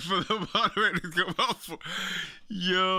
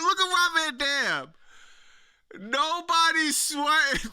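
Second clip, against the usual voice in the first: incredulous emphasis; 5 semitones higher than usual. Real, not acted.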